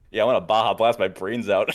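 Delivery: quoting the joke while laughing; laughing quote. Retold or imitated. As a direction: laugh through the punchline. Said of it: "he goes".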